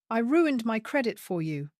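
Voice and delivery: high, loud shriek. Acted. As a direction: shriek it at him. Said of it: "Sienna shrieked".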